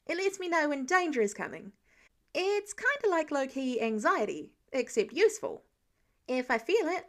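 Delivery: put-on chatty young Spider-Man explaining; lightly voiced eager teenage boy; eager teen hero.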